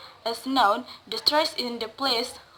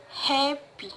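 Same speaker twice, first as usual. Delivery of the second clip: happy with HAP held higher; stress on first syllable; 3 semitones higher than usual. Shown as a demonstration. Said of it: "word stress in the first syllables".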